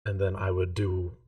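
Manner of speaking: a lightly voiced numb servant; monotone voice. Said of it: "It's been very monotone this whole time".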